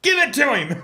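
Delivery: high, laughing shout down the mic; half-laughing, yell it like heckling the ref over the PA; retold yell, laughing. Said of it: "I'm yelling into the microphone".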